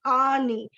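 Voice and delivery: آنی with long, held "aa" and "nee"; demonstrating the sound. Shown as a demonstration. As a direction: model آنی for students, stretching both vowels. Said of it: "یہ sound ہوگی".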